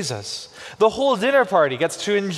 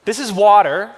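laughing reveal; 3 semitones higher, 7 dB louder than usual. Real, not acted. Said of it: "laughing reveal of the prop".

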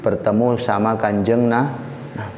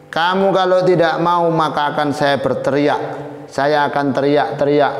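higher-pitched, insistent warning; acted threat; 5 semitones higher than usual. Princess cornering the young man, threatening. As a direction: voice her threat with pressure.

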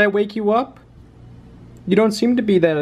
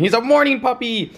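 pet talk; 6 semitones higher than usual. Real, not acted. Baby talk to puppy, repeated.

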